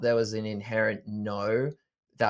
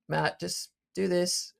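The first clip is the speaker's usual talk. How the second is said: higher, slow, lightly acted calm voice; calm inner voice; 9 semitones higher, slower than usual. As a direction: gently imitate a patient inner voice. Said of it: "just very calmly saying".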